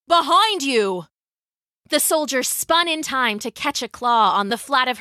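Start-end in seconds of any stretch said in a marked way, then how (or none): 0.1-1.1 urgent, contained shout; shouted warning. A narrator's reading. Galen warning Lydia of a lion behind her, shouting. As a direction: warn a friend of danger at their back. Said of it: "Galen shouted".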